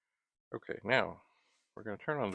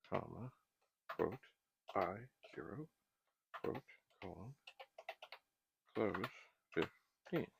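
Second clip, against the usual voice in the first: dictating. Shown as a demonstration. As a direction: murmur each symbol while typing. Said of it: "typing blind".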